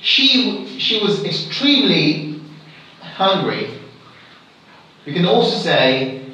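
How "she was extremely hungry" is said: "extremely" emphasized, "hungry" dropping away; stress on extremely. Shown as a demonstration. Teacher showing a second example, stress on "extremely". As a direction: put the weight on "extremely". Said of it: "when you stress this".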